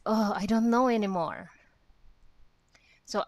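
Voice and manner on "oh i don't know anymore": giving up. Retold or imitated. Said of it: "It's like".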